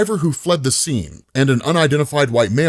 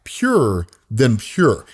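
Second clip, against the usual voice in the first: tempting ice cream man. Acted.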